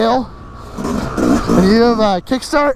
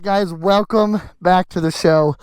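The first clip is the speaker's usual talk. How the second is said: out of breath; 3 semitones lower than usual. Real, not acted. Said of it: "I'm out of breath".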